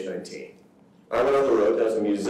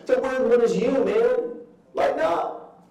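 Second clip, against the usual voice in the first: mock dismissive; 12 semitones higher than usual. Mocking voice of culture.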